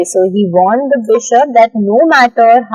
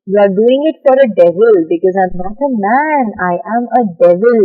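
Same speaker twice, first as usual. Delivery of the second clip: firm, stern; faster than usual. Acted. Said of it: "the convict was very firm, he was very stern".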